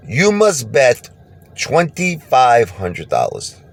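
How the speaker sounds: high, very slow and stern put-on voice; casino staff voice. Casino staff tells the gambler the new bet, high and slow. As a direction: announce the bet like a casino rule, slowly and up high. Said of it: "they said".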